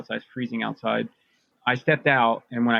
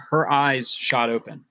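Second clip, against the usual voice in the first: normal talking voice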